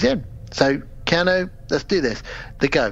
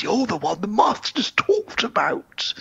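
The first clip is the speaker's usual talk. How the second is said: slow eerie whisper; whispered Renfield; 6 semitones higher, slower than usual. Retold or imitated. Retelling Renfield greeting Mina, whispered eerily. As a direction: breathe it like a madman's secret.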